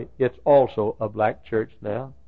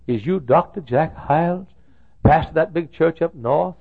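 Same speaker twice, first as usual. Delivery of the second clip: lightly voiced southern Black drawl, a bit higher; a hint of a southern Black pastor's drawl asking a question; 6 semitones higher, 5 dB louder than usual. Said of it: "with his southern black drawl".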